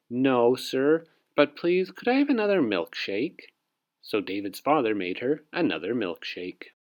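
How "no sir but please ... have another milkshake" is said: polite. Acted. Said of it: "Julie said very politely".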